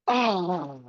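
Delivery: long, high sigh of "oh", falling away; imagined exhale of arrival; acted relieved "oh". Man imagining the moment after he got that, acted relief.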